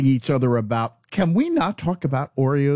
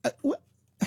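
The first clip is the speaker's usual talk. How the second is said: incredulous really; slower than usual. Retold or imitated. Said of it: "And I'm kinda like".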